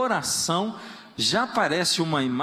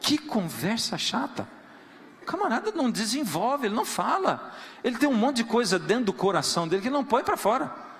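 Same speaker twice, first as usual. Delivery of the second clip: God voiced, annoyed; 3 semitones higher than usual. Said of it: "diz assim".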